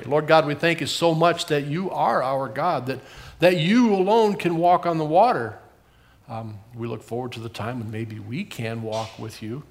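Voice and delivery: lightly voiced gentle prayer; children's prayer. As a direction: pray simply for the kids.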